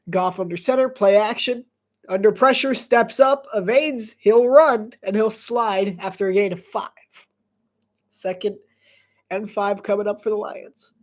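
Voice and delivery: lively sportscaster call of the play; play-by-play voice building to an excited "boom"; play-by-play commentary. Acted. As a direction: call the run like a broadcaster.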